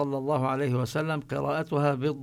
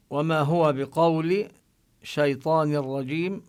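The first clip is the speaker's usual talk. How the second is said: slow, louder, measured tajweed recitation; chanted Quran verse, drawn out; 3 dB louder, slower than usual. Acted. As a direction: recite the verse slowly and carefully.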